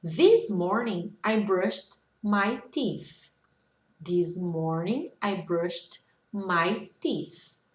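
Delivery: very slow, phrase by phrase; slow model reading. Shown as a demonstration. Teacher reading examples for students to repeat, slow and measured. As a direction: leave gaps so learners can echo each group. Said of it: "vocês podem repetir".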